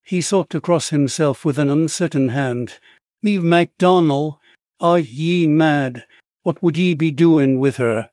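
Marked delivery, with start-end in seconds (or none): 3.2-8.1 put-on a drunk longshoreman's Irish brogue, slow on are ye mad; lightly slurred Irish brogue, startled; thick Irish brogue. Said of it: "A stammering voice, in a thick brogue".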